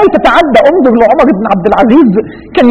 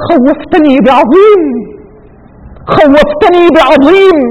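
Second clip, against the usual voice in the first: awed slow words; 4 semitones higher, much slower than usual. Retold or imitated. Omar awed, lowers the whip.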